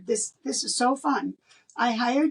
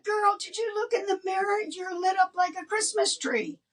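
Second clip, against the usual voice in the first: put-on high, bubbly girlfriend voice; excited friend; 8 semitones higher than usual. Christian friend to the woman, high bubbly teasing. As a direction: tease her friend about the glow. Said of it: "She said".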